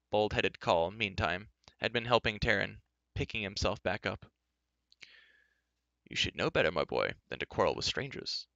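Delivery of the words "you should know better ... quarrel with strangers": low, kindly chiding; good-natured. Acted. Stout farmhand advising the youth, good-natured. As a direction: chide a lad gently. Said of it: "said Coll good-naturedly".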